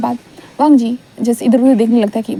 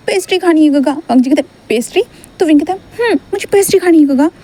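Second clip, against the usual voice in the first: put-on pleading child; 4 semitones higher than usual. Child begs.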